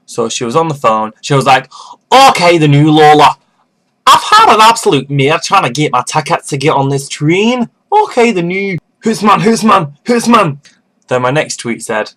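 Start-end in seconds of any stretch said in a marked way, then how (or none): 2.1-10.6 higher, louder mocking Scottish accent. Mocking the Scottish girl on the train phone, exaggerated Scottish accent. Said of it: "she chunnered on all the way in a dirty Scottish accent".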